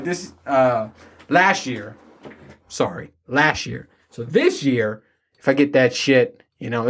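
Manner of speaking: ordinary delivery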